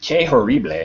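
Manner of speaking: bad French accent mixed with Spanish sounds. Reacting to a French court case: bad French accent. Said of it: "like French with a Spanish accent".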